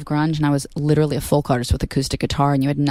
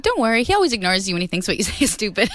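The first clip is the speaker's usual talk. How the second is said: quoting the daughter, laughing; 5 semitones higher than usual. Retold or imitated. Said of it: "she said".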